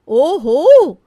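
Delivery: loud, high "ओहो" of discovery; elder bahu catching the younger one lazing; caught you. Acted. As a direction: pounce on the discovery. Catches her sister-in-law shirking.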